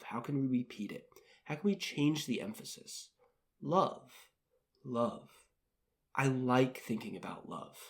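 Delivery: guided affirmation practice. Shown as a demonstration. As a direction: speak each phrase gently to yourself. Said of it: "So let's keep going".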